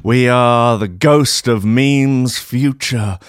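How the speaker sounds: slow, hammed-up spooky announcement; ghostly voice. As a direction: intone it like a spirit from the future. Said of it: "And then another voice".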